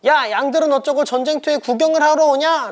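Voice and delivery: high-pitched mock scolding of a little brother; 혼내는 형. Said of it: "라면서 다윗만 혼내고 있어요". (동생을 혼내는 높은 목소리)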